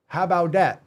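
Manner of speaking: emphatic rhetorical repeat. Real, not acted. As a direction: push it home defiantly.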